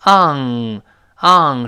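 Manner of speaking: "on" drawn out as "ahng". Shown as a demonstration. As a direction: slide from "ah" into a held NG on "on". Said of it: "然后拱舌根".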